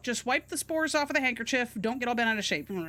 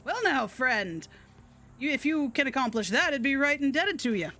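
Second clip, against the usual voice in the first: grateful country gentleman; Southern Dracula; 3 semitones higher than usual. Acted. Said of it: "simple country Dracula".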